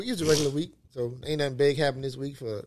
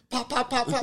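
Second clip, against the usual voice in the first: gunshot imitation; 12 semitones higher than usual. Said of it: "all you would heard on fucking video".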